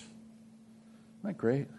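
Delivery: breathy hushed wonder, slow; whispered aside to the congregation. Real, not acted. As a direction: lean in and whisper it slowly.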